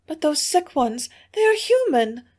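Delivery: high, tearful cry; weeping plea. A narrator's reading. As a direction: plead through tears. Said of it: "cried Hilda to John, weeping".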